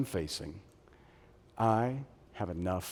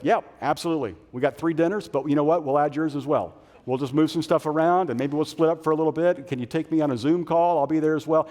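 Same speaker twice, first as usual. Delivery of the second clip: eager overcommitting; 3 semitones higher, 5 dB louder, faster than usual. Acted. Overcommitted eager yes-man.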